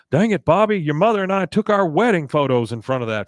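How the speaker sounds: high, loud mock scolding; imitating Hank. Hank scolding Bobby, loud and high. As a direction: scold him like an exasperated dad. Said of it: "Hank is, uh, giving it to Bobby".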